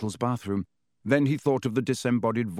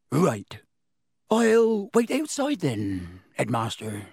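embarrassed Hagrid; 3 semitones higher, slower than usual. A narrator's reading. Hagrid retreating from Dumbledore's office, sheepish. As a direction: back off awkwardly.

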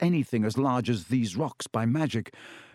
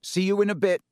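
higher, faking courage; forced confidence; 7 semitones higher, faster than usual. Acted. Harry to Ron, faking confidence. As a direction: sound brave over fear. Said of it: "inject some confidence into his shaking voice".

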